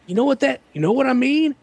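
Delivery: imitating Sam. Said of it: "he'd say".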